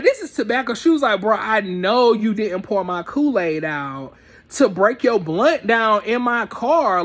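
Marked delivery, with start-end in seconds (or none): 0.0-0.7 higher-pitched retold accusation; flipping out. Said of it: "She flips". 1.2-7.0 retold scolding, a touch heated; mild imitation of an angry driver; going off. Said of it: "she's going off on my best friend".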